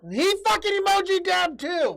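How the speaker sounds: loud high shout; loud sharp voice. Pretend. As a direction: yell it at the chat. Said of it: "Why are you yelling at Ghost Pepper".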